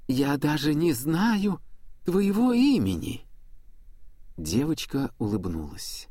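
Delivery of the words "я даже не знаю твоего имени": out of breath. Acted. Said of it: "тяжело дыша".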